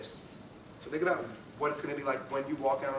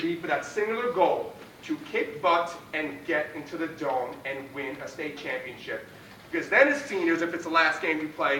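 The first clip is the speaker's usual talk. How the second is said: pep talk; 3 semitones higher, 5 dB louder than usual. Real, not acted. Pre-game pep talk to team.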